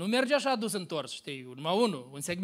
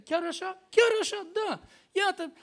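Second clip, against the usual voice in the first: eager confirmation; 9 semitones higher than usual. Retold or imitated. Confirming to surprised girls.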